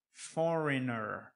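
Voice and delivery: "foreigner" said as "forener"; added ER ending. Shown as a demonstration. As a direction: model foreigner with ER on the end. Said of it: "Nós acrescentamos esse E R no final".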